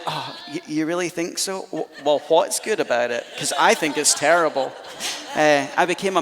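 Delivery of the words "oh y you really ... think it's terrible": fishing for compliments. Retold or imitated. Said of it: "I'm like".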